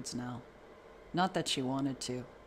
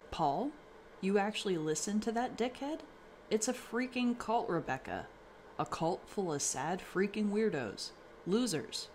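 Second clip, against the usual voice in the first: angry father; 6 semitones higher than usual. A narrator's reading. Father berating mother about the cult.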